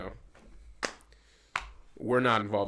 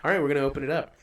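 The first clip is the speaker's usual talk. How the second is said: lightly imitated reviewer walking through each step; a hint of a cheerful unboxing host; Steve1989MREInfo impression; 3 semitones higher than usual. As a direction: lightly mimic his presenting voice. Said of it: "He goes like".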